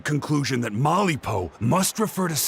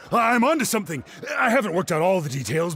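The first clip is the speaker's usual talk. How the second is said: high and fast, tumbling out; eager rush; 6 semitones higher, faster than usual. Acted. Ponche hurrying to tell Kinich his theory, eager and fast.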